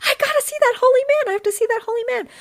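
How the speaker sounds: high, loud and fast, tumbling out; urgent insistence. Retold or imitated. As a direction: blurt it out like you can't wait a second. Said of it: "I'm like".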